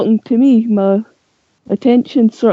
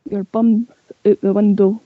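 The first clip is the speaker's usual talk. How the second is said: Scottish saying; 4 dB quieter than usual. Shown as a demonstration. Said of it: "say it again for us".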